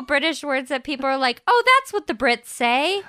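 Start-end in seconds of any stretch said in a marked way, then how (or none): 1.5-3.0 mock American gushing. Imitating Americans on Brits.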